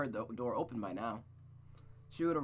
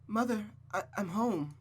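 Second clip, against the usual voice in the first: calling out; 8 semitones higher than usual. Acted. Rose calls out arriving home.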